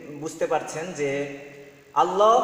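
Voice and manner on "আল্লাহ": আল্লাহ loud, with rounded final o, "Allo"; correct pronunciation. Shown as a demonstration. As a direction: say আল্লাহ as "Al-lo", rising. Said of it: "আর শুদ্ধ হলো আল্লাহ". (শুদ্ধ উচ্চারণে "আল্লো")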